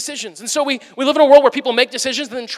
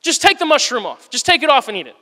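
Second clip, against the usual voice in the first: mock snippy retort; 4 semitones higher than usual. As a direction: play the waiter snapping back in pretend. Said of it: "you don't say".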